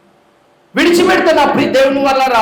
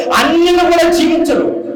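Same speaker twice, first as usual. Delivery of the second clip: forceful preaching cry; 4 semitones higher than usual. Acted. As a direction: hurl the line out to the congregation. Repeated line, then repeated softly. (గట్టిగా, పై స్వరంలో "అన్యులు కూడా జీవించరు")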